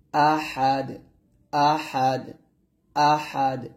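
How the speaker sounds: আহাদ with a thin, pressed final দ; teacher demo of আহাদ, pressed end. Shown as a demonstration. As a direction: squeeze the last দ of আহাদ tight and thin. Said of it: "চিকন করে চাপ দিয়ে বলতে হবে".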